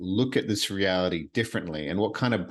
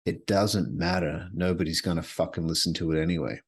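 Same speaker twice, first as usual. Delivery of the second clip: inner critic; 3 semitones lower than usual. Retold or imitated. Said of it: "this voice in my head was like".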